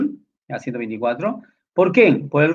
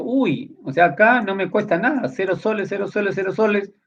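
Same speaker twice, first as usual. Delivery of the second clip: higher-pitched mock delight; pleased little discovery, pitched up; happy and contented; 5 semitones higher than usual. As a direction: act out a naively pleased student. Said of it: "Yo todo feliz y contento".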